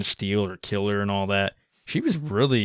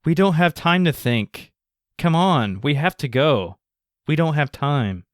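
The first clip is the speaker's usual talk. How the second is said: lazy delivery; 4 semitones higher, 4 dB louder than usual. Retold or imitated. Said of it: "the most lazy lines ever".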